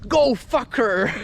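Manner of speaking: slow put-on goading voice; voice in the head. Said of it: "this voice kept saying".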